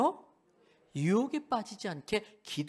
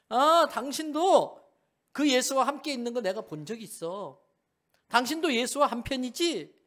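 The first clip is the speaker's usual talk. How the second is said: put-on accusing servant girl; 7 semitones higher, 7 dB louder than usual. (베드로를 알아본 여종이 높고 크게 캐묻듯)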